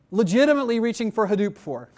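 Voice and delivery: legitimately pressed on with weight; stress on legitimately. Real, not acted. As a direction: lean on the word legitimately to make the point. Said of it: "I did emphasize the word legitimately".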